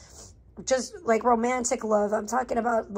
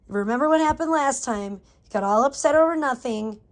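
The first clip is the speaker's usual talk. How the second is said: raised, emphatic self-scolding; putting self in check; 3 semitones higher, 6 dB louder than usual. Retold or imitated. Reminding her worried inner voice of last time, stern self-talk. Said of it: "I have to, like, put myself in check".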